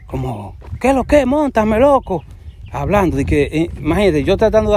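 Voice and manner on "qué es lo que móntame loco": Dominican street slang. Acted. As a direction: throw it out like a cocky Dominican street guy. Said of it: "hablara como un dominicano así".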